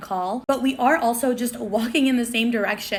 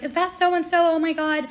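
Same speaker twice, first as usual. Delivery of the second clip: high-pitched mocking squeal; obnoxious fangirl; 7 semitones higher than usual. Girl pestering the security, obnoxious mock squeal. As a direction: imitate an overexcited fan, pitched well up. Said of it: "Being really loud and obnoxious".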